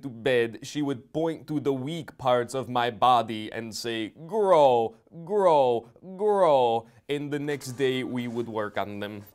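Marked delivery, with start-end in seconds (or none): 4.3-6.9 mother's command. Retold or imitated. Mother urging body parts nightly.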